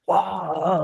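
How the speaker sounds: imitated "wah" of a jolting bed; imitated shaking noise. Storyteller mimics bed shaking at night, startled noise. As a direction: voice the sudden shudder as a noise.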